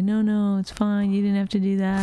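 lightly voiced mock politeness; mock imitation of co-host. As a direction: imitate his fake modesty. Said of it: "he's gonna say".

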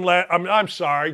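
usual speaking voice

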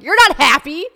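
high, loud mocking squeal; mocking retort. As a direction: squeal it at your younger self. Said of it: "I'm like".

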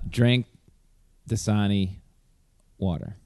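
Drink, Dasani, water, a pause after each word; slate read, word by word. Shown as a demonstration. Auditioning for the Dasani voiceover, slow and separated. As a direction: give each word its own beat. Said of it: "Lenny Marcus for, uh, Dasani water".

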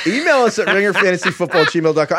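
laughing through the email plug. Real, not acted. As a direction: giggle your way through the address.

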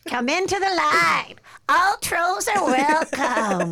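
high, slow, booming troll. Acted. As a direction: welcome them like a bridge troll. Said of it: "My troll, my troll voice".

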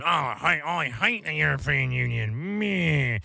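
lightly voiced sulky whine; mocking whine. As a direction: sneer it like a petulant child. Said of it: "other than".

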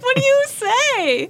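high, slowed parent cue; high sing-song parent prompt; mock parent prompt. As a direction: ask it like a sing-song mom prompting manners. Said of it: "I'm like".

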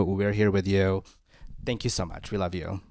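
low, soft and caring; tender reassurance. Real, not acted. Host comforting an emotional caller.

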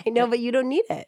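fast playful whisper; whispered aside to her cohost. Real, not acted. Teasing aside about no makeup.

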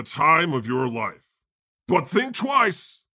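hammed-up poetry reading of song lyrics; dramatic reading. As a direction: recite the lyrics like a grave stage poem. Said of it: "a dramatic reading of a song by a band, as read by the speaker".

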